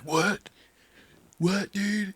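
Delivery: high-pitched imitation of a stunned friend; mock incredulous. Imagining a friend's reaction to a text, mock incredulous.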